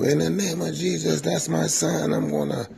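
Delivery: high churchy mother's voice; mother casting out the cuss, high and fervent; mom praying over son. Retold or imitated. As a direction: call on Jesus over your son. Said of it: "here come my mom with the oil".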